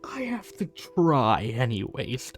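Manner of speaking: slow, mocking imitation of the hunter; mock quote. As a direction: drag out his brave words to mock him. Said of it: "What happened to all that? ... talk earlier".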